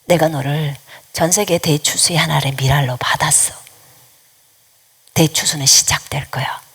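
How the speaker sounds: low, measured voice with pauses. Retold or imitated. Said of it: "라고 했어요". (낮고 차분하게 선포하듯)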